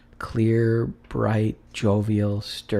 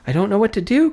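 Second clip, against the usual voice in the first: laughing and crying; 11 semitones higher, 6 dB louder, much faster than usual. A narrator's reading. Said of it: "laughing and crying in the same breath".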